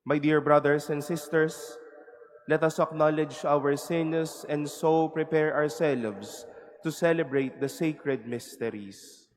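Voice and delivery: cathedral echo. Real, not acted. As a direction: voice ringing in a large church. Priest speaking in a church.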